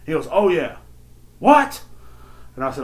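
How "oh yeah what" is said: high shouted hype-man catchphrases; a rapper. Retold or imitated. Old man answers his daughter like a rapper, shouting. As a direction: imitate a rapper's ad-libs, jumping up loud. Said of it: the rapper's name, then "calm down".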